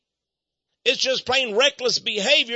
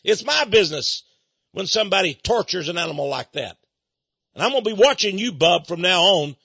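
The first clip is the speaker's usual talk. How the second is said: louder firm warning; retold angry retort; 4 dB louder than usual. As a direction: stand your ground, loud. Retold quarrel with dog owner.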